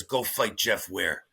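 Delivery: low, slow, understated command; retold order in a dropped voice; coach's order. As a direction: give the order low and unhurried. Acted coach giving a curt order.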